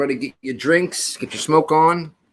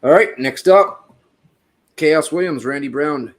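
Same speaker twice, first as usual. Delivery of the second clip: fight announcer; 5 semitones higher, 10 dB louder, slower than usual. Acted. Host announcing the next fight.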